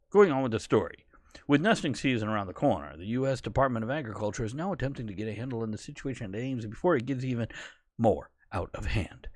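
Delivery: lightly put-on newsreader delivery; newscast voice. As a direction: read it like a TV news anchor. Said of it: "my newscast voice".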